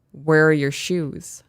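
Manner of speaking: slow, measured parental question; restrained disbelief. Retold or imitated. Parent turning round to shoeless son, slow disbelief. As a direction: ask it slowly, holding back exasperation. Parent first asks, before raising voice.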